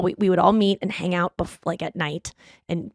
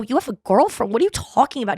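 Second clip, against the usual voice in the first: incredulous, higher challenge; mock-outraged questioning; retold disbelief; 3 semitones higher than usual. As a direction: demand an explanation in acted shock. Shocked at his girlfriend news.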